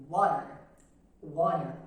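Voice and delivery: "water" starting with a rounded w sound; English w in water. Shown as a demonstration. Teacher modelling the w of "water". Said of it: "Na palavra água".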